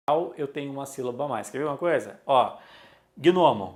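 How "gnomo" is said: "gnomo" said with an added i after the g, gui-no-mo; "gnomo" pronounced as gui-no-mo, louder; extra vowel. Shown as a demonstration. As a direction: put a vowel between g and n in "gnomo". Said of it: "Como é que eu pronuncio?".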